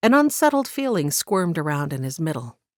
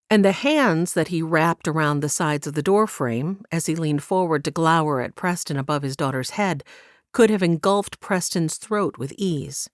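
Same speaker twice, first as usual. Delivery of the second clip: usual speaking voice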